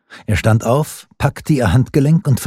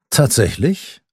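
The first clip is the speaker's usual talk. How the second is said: incredulous question; 6 semitones higher, slower than usual. A narrator's reading. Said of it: "Fragte Anjou".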